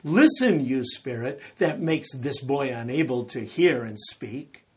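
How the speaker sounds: loud commanding rebuke; Jesus rebuking the evil spirit, loud and commanding; stern rebuke. Retold or imitated. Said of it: "he rebuked the evil spirit".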